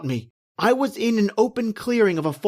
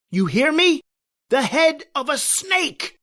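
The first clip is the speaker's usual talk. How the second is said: insistent outburst; 7 semitones higher than usual. Acted. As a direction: make them believe the horror. Insisting on horror seen.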